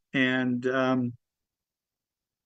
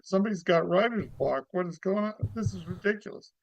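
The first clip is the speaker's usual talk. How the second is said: comedy character act; 3 semitones higher than usual. Acted. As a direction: play your cheerful comic guru for the host. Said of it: "give us a little bit of your act, of your character".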